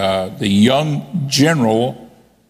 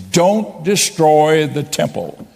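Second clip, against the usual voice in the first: higher, slow, understated yell; retold yell; 5 semitones higher, slower than usual. General pleading with unheeding generals, mild retold yell. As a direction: stretch each word like a far-carrying order. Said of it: "he would yell to his generals".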